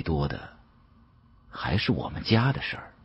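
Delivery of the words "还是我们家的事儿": usual speaking voice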